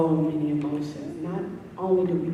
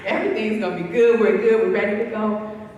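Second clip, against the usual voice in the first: quick, louder, higher rush of optimism; upbeat optimist; 6 semitones higher, 10 dB louder than usual. Retold or imitated. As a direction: rattle it off as breezy self-reassurance. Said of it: "ninety-nine point nine percent of the time is optimistic".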